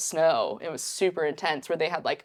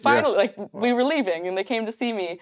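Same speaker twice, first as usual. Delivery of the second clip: much higher, overwhelmed happy exclaim; tearful joy; 5 semitones higher than usual. Retold or imitated. Retelling the moment the wolves answered, much higher and overjoyed. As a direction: gush with emotional joy. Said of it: "I was, like, crying".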